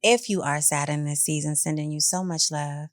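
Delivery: tender. Real, not acted. Sending love to sad listeners.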